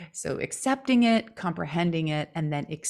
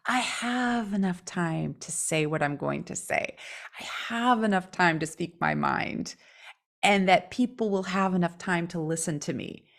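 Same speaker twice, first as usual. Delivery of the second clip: calm affirmation. Shown as a demonstration. Models unhurried self-affirmation.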